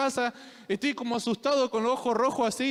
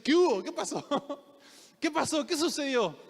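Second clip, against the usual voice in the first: imitating dad; 4 semitones higher than usual. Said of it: "mi papá cuando te saluda te dice".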